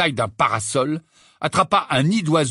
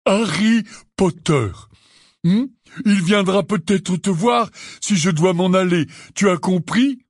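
Hagrid introducing; 3 semitones higher than usual. Acted. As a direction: introduce like talking to a toddler.

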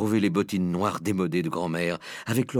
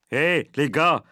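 higher, lively call to mates; exclaiming; 4 semitones higher, 4 dB louder, slower than usual. A narrator's reading. Server calling the kitchen staff, exclaiming. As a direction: hail the gang to share a joke. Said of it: "s'exclama-t-il".

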